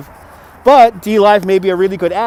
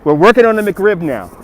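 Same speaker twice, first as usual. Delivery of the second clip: radio DJ voice; 3 semitones higher, 4 dB louder than usual. Acted. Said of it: "I sound like a radio D J".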